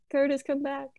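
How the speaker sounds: high little pleading call; playful calling. Pretend. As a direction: call after someone in a small, high voice. Playfully calling absent co-player back.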